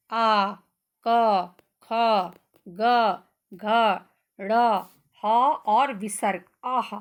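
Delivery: throat sounds आ, क, ख, ग, घ said one by one, firmly; sound demo. Shown as a demonstration. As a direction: sound each letter from the throat for pupils. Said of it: "जब आप इनको बोलोगे ना बच्चों".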